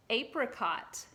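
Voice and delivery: "Apricot" starting with the letter name A; long-A apricot. Shown as a demonstration. Teacher has children repeat the word, "Apricot" said AY-pri-cot. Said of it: "Some people say apricot".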